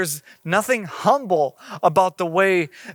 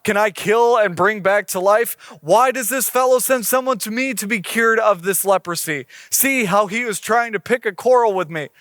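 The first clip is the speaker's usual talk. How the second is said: a touch of panicked protest, read aloud; lightly acted king losing his composure; mildly freaking out; 4 semitones higher than usual. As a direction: read it as an exasperated king, pitch climbing. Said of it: "This king is freaking out".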